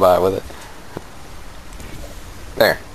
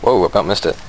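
ordinary delivery

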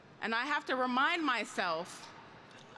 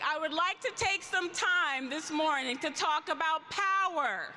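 pitched higher, with more energy; more enthusiastic; 4 semitones higher than usual. Shown as a demonstration. Union leader rallies a sluggish convention crowd, energized. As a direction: pump it up so the crowd answers back. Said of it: "That doesn't sound very enthusiastic".

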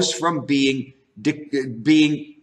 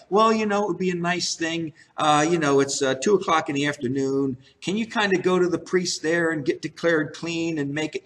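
softer, fast, offhand mock suggestion; casual mock request; 7 dB quieter, faster than usual. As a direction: toss it off like an idle suggestion, softly. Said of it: "Jesus doesn't say to him".

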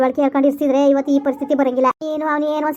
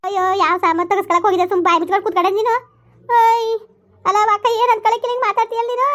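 high-pitched quarrelling protest; indignant retort; 6 semitones higher than usual. Acted. Accused woman answers back about taking the goods, indignant. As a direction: protest hotly, pitch climbing higher.

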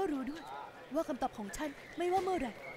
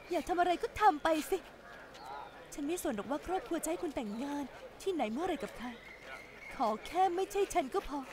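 angry rejection. Acted. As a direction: throw his offer back at him. Woman angrily rejects ex-lover.

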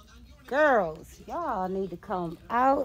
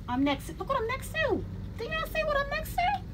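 much higher, fast, voice on the edge of tears; fighting back tears; faster than usual. Real, not acted. Seeing her product on the shelf, choked-up joyful tears. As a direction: try not to cry while gushing. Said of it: "I'm trying so hard not to cry".

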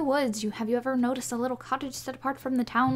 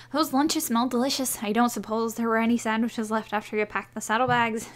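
a touch of cheerful teasing in character; lightly voiced quest giver; 4 dB louder than usual. Rider teasing about the sandwiches, lightly voiced. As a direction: read it as the eager rider.

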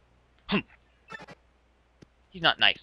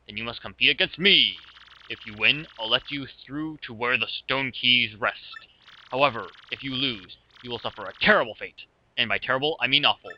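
boss villain. Acted. Voices game boss dialogue.

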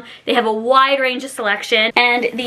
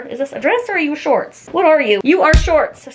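playfully scolding a garment. Pretend. Vlogger confronting a romper, playfully stern. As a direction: quiz the outfit like a naughty kid.

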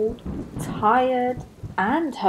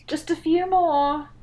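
Rabbit; 8 semitones higher than usual. Acted. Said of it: "Rabbit replied".

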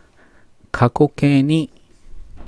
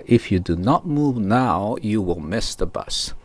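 slow example sentence; much slower than usual. Shown as a demonstration. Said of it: "実際の英語らしい言い方ですね".

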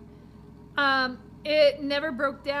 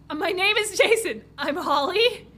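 higher, louder character voice; character introduction; 4 semitones higher, 4 dB louder than usual. Acted. Driver and girl trading names, higher and louder. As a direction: introduce yourself in the stranger's voice.

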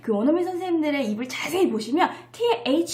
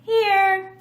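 put-on child answering roll call; 7 semitones higher, 6 dB louder than usual. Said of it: "누구 이름을 부르면 아이들이".

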